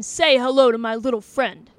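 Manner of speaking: put-on light Al Pacino Scarface accent, punched opening. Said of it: "the way that you did the first time".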